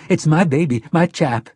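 a frightened mother insisting to Susanna; nervous. Acted. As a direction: rush it out, cornered and scared. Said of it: "Mia said nervously".

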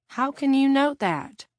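sharp high demand. A narrator's reading. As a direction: press her hard for an answer. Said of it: "Elaine demanded".

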